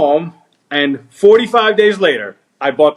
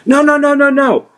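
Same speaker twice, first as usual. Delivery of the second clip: higher, mildly alarmed string of refusals; mock protest; 8 semitones higher than usual. Buyer told he won't get the car back, mock protest. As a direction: imitate an anxious buyer objecting.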